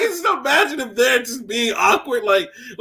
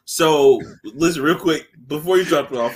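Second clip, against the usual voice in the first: Kevin Hart impression; 8 semitones lower than usual. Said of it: "pull the Kevin Hart on him".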